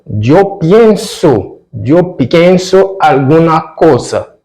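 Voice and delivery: slow, high "pienso", the ie drawn out; slow Spanish model. Shown as a demonstration. Teacher stretches "pienso" so students hear the added i. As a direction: lean on "pienso", slow and lifted. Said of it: "A letra I entra aqui".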